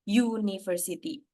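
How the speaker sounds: "university" said slowly and clearly, opening on a "yu" sound; pronunciation demo. Shown as a demonstration. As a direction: show how "university" begins with a consonant-like "yu". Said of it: "begini ya". ("university" diucapkan pelan dan jelas, diawali bunyi "yu")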